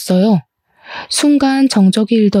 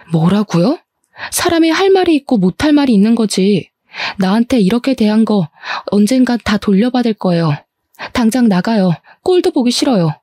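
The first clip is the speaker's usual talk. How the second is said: shouting. Acted. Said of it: "악을 썼어요".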